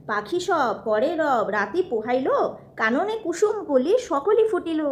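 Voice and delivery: put-on slow sing-song rhyme for a toddler; reciting nursery rhyme. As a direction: recite it slowly, rhythmically.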